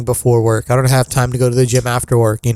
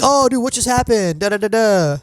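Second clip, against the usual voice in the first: raised pitch, play-acted surprise; mock reaction; 7 semitones higher than usual. Friend acting out casual game-watching with chips, mock surprise. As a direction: toss it off like a distracted viewer. Acts out chatting while game plays.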